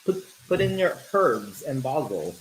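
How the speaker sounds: lightly imitated British accent, "herbs" with an H; hint of a British TV chef accent; Gordon Ramsay's British accent. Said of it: "that's Gordon Ramsay".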